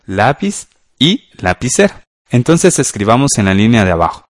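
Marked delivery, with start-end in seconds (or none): none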